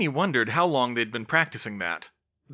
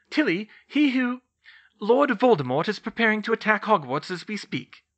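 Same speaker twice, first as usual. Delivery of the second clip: high, louder, formal briefing; pitched-up, grave professor voice; stern professor; 10 semitones higher, 5 dB louder than usual. A narrator's reading. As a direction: announce it as a formidable teacher. Narrator voices McGonagall.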